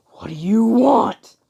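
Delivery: high, loud, stretched demand; acted furious shout; angry yell. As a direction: scream the question back at your opponent. Villain Deku snaps back mid-fight.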